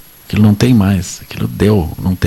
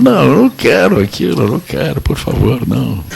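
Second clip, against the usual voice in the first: higher, pleading no, no, I don't want it; mock refusal; 6 semitones higher than usual. Someone who changed refuses the old situation, mock pleading. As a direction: push the old life away, half-acted.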